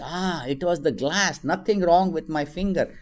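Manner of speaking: put-on relieved child.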